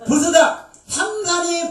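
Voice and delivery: fiery pulpit shout; preaching shout. Real, not acted. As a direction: hammer 부수다 home to the congregation. Preacher shouting the key word.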